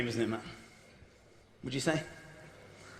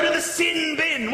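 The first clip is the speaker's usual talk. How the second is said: referee order; 5 semitones higher, slower than usual. Retold or imitated. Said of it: "referees who shout".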